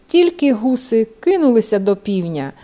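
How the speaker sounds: plain reading voice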